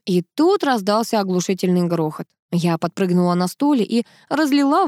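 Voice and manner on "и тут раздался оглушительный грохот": ordinary delivery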